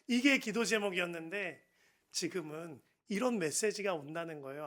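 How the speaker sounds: ordinary talk, nothing marked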